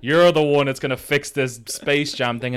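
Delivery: mocking fanboy. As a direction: mimic a smug fan in a hushed monotone. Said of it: "in the cinema are all like".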